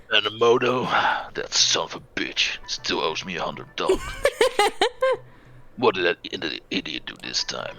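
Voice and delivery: put-on lightly gruff old cop; a hint of a grumpy veteran detective; gruff noir detective. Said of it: "I'm just gonna keep him gruff".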